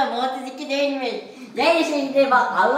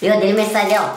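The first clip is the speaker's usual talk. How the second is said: numb from the dentist; 3 semitones lower than usual. Real, not acted. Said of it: "Ağzımı hissetmiyorum".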